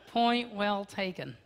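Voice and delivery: slow, laughing "Point well taken"; laughing concession. Real, not acted. Pastor conceding his wife's joke, laughing. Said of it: "Point well taken, dear".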